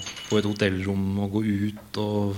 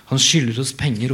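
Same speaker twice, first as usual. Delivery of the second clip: a touch of a shout from the lawn; mild shout; 3 semitones higher, 6 dB louder than usual. Acted. Woman on the lawn yells up at Evelyn, mildly raised. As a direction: call it up, a little louder. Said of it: "ropte kvinnen".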